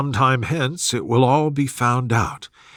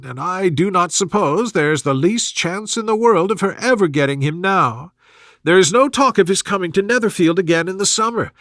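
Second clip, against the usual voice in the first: higher, rattling fretful matron; fussy mother; 5 semitones higher than usual. Acted. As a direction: chatter it out quickly in a higher voice. Mrs Bennet voiced in dialogue.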